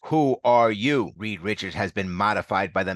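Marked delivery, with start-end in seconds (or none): 0.1-1.1 slow, loud demand, pitched up. A narrator's reading. The Maker demands Reed name himself, slow loud demand. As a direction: hammer the question home. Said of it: "The Maker demands".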